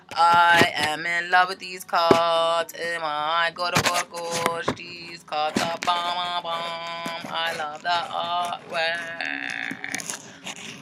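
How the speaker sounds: slow, drawn-out swooning over something; playful gushing. Pretend. Tarot reader admiring her new cards, slow theatrical gushing. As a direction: gush with every word stretched out.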